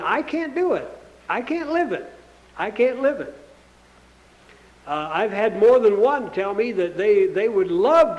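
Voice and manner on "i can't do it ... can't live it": voicing the quitters. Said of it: "simply saying".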